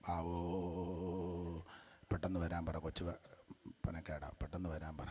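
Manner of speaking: put-on soft, whiny baby wail, stretched out; mock crying baby. Mocking infant baptism, he voices a wailing baby.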